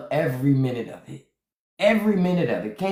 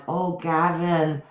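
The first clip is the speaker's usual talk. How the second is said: a hint of a gushing Melania; smitten Melania. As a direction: play her as dreamily infatuated. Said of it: "She's like".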